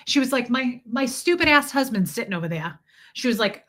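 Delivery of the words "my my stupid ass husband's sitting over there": imitated New York griper; lightly put-on New York accent. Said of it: "I live in New York".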